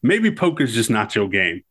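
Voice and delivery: lightly voiced teasing gunslinger, pitch lifting after the start; playful movie-quote impersonation, lightly done; Doc Holliday. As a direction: needle a card opponent with a hint of a character voice. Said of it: "And Doc goes".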